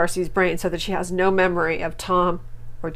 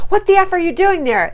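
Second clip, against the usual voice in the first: high, loud mock outrage; mock outraged Florian; 10 semitones higher, 6 dB louder than usual. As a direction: ham up his fake indignation.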